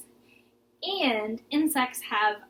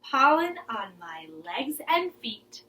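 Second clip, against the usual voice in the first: rhythmic rhyme with movements; lilting kids' rhyme; poem recitation. Shown as a demonstration. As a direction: chant it while acting it out. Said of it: "One more time".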